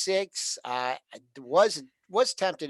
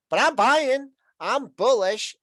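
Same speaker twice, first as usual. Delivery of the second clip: imitating; 8 semitones higher, 6 dB louder than usual. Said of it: "he's like".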